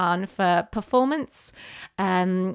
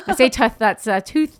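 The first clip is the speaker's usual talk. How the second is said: Welsh accent on tooth; 3 dB louder than usual. Shown as a demonstration. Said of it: "It's my accent".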